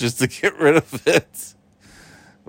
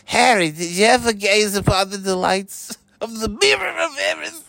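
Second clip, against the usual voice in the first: Dumbledore voice; 5 semitones higher than usual. Pretend. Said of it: "it's the Dumbledore".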